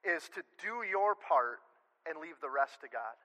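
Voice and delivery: slow, stressing "your"; measured stress on "your" and "rest"; slow emphasis. Real, not acted. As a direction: lean into "your part" slowly. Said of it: "The last thing".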